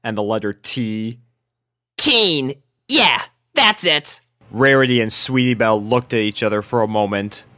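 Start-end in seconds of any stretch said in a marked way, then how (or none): 2.0-4.2 louder forced confirmation; awkward tomboy recovering; awkward recovery. A narrator's reading. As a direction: cover the slip. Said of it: "stammered Rainbow".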